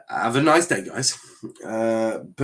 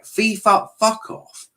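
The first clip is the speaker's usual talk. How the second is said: higher, spat out at FIFA; exasperated curse; 9 semitones higher, slower than usual. Real, not acted. Streamer vents at FIFA over scheduling, exasperated. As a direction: tell FIFA where to go.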